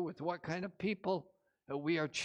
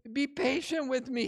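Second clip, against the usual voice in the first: a pleading plea, pitched higher; begging servant; 5 semitones higher than usual. Acted. Servant begging his master for patience, pleading. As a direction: beg the master for more time. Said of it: "he begged".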